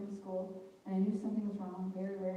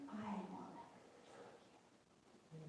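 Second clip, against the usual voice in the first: slow breathy whisper, far softer; a hushed, slow whisper of God's vow; whispered promise; 14 dB quieter, slower than usual. Retold or imitated.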